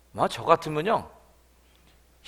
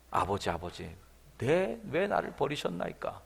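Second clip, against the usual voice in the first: a muted cry of abandonment; anguished cry; 5 semitones lower, 6 dB quieter than usual. Retold or imitated. Jesus crying to the Father, understated anguish. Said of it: "그런 처절한 외침".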